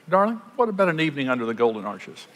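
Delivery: hammed-up poetic suitor, quick, laughing; mock romantic. Shown as a demonstration. Courting man offering fast food, mock romantic. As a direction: play the lover grandly for a joke. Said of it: "You say".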